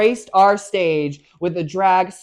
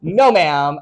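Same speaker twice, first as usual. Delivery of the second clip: laughing, louder, slow "this is wild"; laughing disbelief; 4 dB louder, slower than usual. Retold or imitated. S1 retelling her shock at the judges while laughing. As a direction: laugh through mock outrage.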